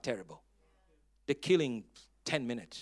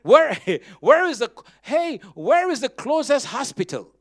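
panicked man; 5 semitones higher, 10 dB louder than usual. Retold or imitated. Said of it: "The man was not panicking".

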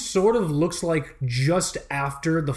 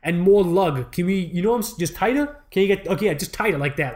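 put-on greasy Long Island accent; 2 semitones higher than usual. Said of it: "that is a great Swiss accent that you're doing".

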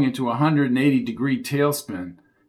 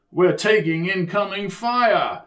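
higher voiced yell for Sid; 6 semitones higher than usual. A narrator's reading. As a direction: call it out over gunfire. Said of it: "yelled Sid".

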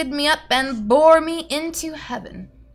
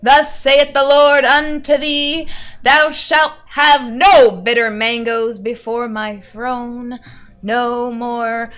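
mock biblical prophet; 6 dB louder, slower than usual.

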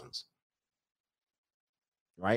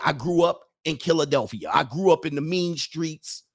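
mock tough bragging; 5 semitones higher than usual.

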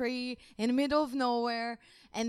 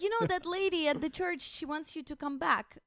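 goofy town fool; 7 semitones higher, 4 dB louder than usual. Retold or imitated. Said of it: "He's like".

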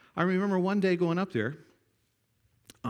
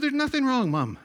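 high, raised voice to Mom; calling back; 10 semitones higher, 5 dB louder than usual. Retold or imitated. Boy answering his worried mother from afar, calling back. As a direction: shout back from the hilltop.

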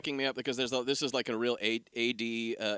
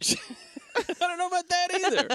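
higher, slow cagey voice; mock evasive voice; 14 semitones higher than usual. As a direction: dodge it in a silly voice. Evasive joking voice.

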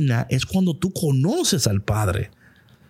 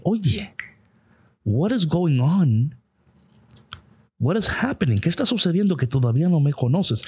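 higher-pitched mild questioning, no reproach; concerned, not scolding; 5 semitones higher than usual. Acted. Jesus gently asking Felipe what is happening, concerned, not scolding. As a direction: ask as a puzzled check-in, not a telling-off. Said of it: "no le está tratando de regañar".

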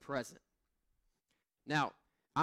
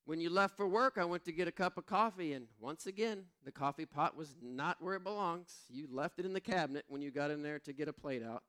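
imitating wife; 2 semitones higher than usual. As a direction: play the fed-up wife reading her text. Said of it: "She said".

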